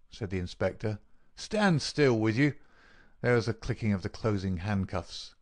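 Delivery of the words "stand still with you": inspector's firm order. Acted. Inspector restrains a struggling prisoner.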